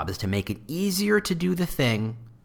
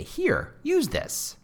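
mock offhand handoff; much slower than usual. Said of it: "and say".

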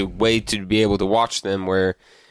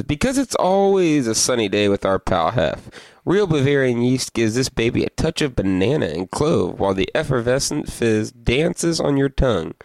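ad read; 3 semitones higher than usual. Acted. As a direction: sell it like a beer ad. Reads the beer label aloud.

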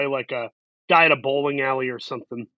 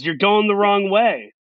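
raised pitch, mildly projected retold call; imitated calling out; 4 semitones higher than usual. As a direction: mimic someone calling him back. Acts out Jeremy calling him back.

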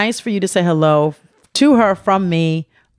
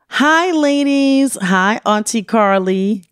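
slow sing-song reading of a fan's greeting; mock letter voice; 3 semitones higher, much slower than usual. Host reads a fan letter aloud, drawn out mock-fan voice. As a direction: read it like a gushing fan, drawn out.

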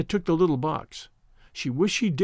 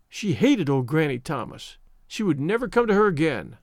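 plain reading voice

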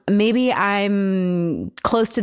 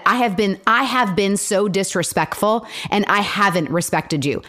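sincere apology demo. Shown as a demonstration. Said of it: "You should have said".

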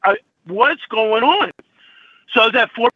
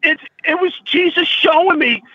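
tearful; 4 semitones higher than usual. Real, not acted. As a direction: push the words out while crying. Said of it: "I'm sorry I'm crying".

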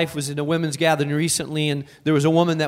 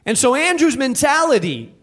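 preaching at full force; 10 semitones higher than usual. Acted. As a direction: preach it out with rising fire.

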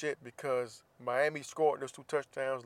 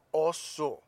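whisper; 2 semitones higher than usual. Acted. Whispered lead-in to sign-off.

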